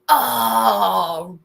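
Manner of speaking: put-on very slow, drawn-out teen slang; old slang exclamation. Imitating ninth-grade slang of the past, drawn-out awe. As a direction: stretch it out in awed slacker style. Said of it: "People used to say".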